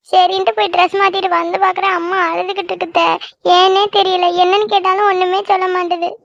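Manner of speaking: tearful, whining account; crying. Acted. Girl tells aunt her mother won't stop crying, tearful. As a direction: tell it all through acted sobs. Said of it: "எதுக்கு இப்ப அழுதுட்டு வந்த".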